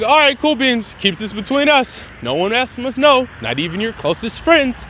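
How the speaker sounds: lightly put-on voice for a cool principal; a hint of a secretive school principal; principal's character voice. Principal swearing two students to secrecy, lightly voiced. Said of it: "I think he talks like that".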